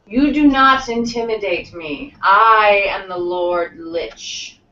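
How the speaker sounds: slow, imperious lich, lightly voiced; drawn-out villain declaration with a touch of menace; hissing lich. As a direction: proclaim it as a mildly menacing undead lord. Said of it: "the Lich hisses and says".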